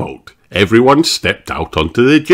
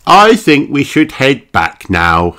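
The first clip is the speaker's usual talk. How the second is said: slow, higher character voice; dizzy Miss Rabbit; 6 semitones higher, 3 dB louder than usual. A narrator's reading. Miss Rabbit to passengers after circling the loch, weary. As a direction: suggest it slowly, pitched up.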